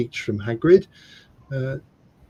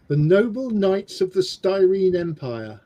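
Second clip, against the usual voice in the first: mock royal decree; 5 semitones higher than usual. Grand proclamation of knighthood.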